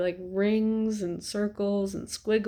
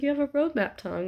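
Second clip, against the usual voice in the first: excited nurse; 7 semitones higher, faster than usual. Retold or imitated. Retold nurse announcing diagnosis.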